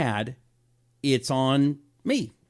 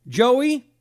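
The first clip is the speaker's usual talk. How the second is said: calling a name; 10 semitones higher, 6 dB louder than usual. Real, not acted. Calls out to coworker in chat.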